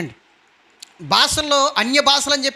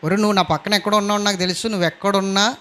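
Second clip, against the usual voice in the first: defiant rebuke; 5 semitones lower than usual. Pretend. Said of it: "అని చెప్పండి".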